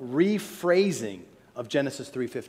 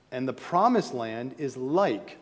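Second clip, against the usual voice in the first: like held and leaned on, slower; stress on like; 3 semitones lower, slower than usual. Shown as a demonstration. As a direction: drag out like with weight. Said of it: "I'm emphasizing the word like".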